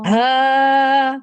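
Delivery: ہا from the bottom of the throat; Tajweed letter demo. Shown as a demonstration. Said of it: "حلق کے نچلے حصے سے".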